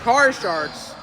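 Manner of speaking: quick, lively sports commentary calling each play. Acted. Commentator calling the game for viewers, live play-by-play. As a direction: call the game like a courtside announcer.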